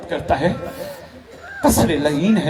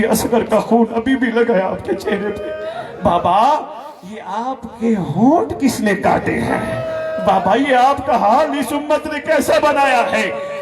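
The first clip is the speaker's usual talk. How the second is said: higher, grieving over her father's head; weeping lament; 6 semitones higher than usual. Acted. Daughter mourning over her father's severed head, weeping. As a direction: cry over him, stroking his hair. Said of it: "फेर के कहती है".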